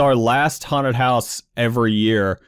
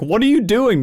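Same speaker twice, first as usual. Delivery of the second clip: baffled question; 9 semitones higher than usual. Retold or imitated. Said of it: "he just came downstairs like".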